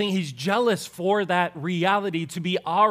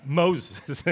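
God's voice. Shown as a demonstration.

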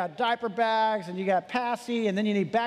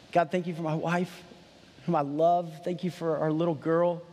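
heartfelt prayer; 2 semitones lower than usual. Retold or imitated. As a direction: pray it back gently, grateful and humble. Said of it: "I just started praying".

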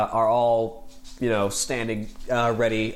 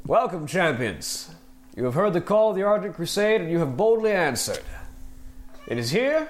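paladin lord's proclamation; 3 semitones higher than usual. Acted. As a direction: proclaim to the champions from the parapet. GM voices Tyrion addressing arena.

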